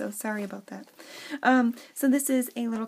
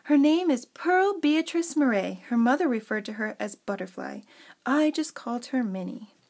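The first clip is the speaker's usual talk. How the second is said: expressive storybook reading; theatrical read-aloud with emphatic opening; story narration; 5 dB louder than usual. Acted. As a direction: introduce the character like a storyteller. Reads her story aloud.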